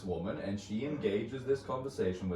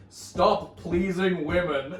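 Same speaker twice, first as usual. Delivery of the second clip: firm command; 2 semitones higher, 4 dB louder, slower than usual. Retold or imitated. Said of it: "laid her fist down on the table".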